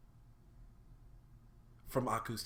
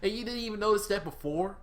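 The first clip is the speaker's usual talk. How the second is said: mock incredulous; 11 semitones higher, 7 dB louder, faster than usual. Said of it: "I'm just like".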